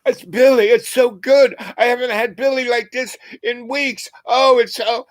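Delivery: very high, choked rapture; overwhelmed, voice cracking up high; high trembling joy about to cry; near tears, high. Retold or imitated. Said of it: "and he starts to cry".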